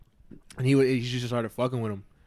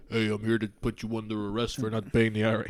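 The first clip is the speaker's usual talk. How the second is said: hint of a fake officer; casual mock officer; lightly voiced fake cop. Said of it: "It's like".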